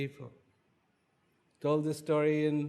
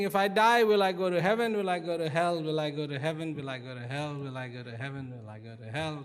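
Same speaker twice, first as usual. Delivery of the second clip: worried thoughts fading; faster than usual. Acted. King's anxious looping thoughts, fading.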